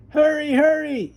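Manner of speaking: put-on an impatient boy hurrying his sister; yelling. Boy hurrying his sister with the Band-Aid, urgent mock yell. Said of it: "yelled Arthur".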